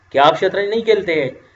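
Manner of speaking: casual informal question to a younger friend. Shown as a demonstration. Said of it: "इन दोनों फिक्रों में आपको फ़र्क नज़र आ रही है".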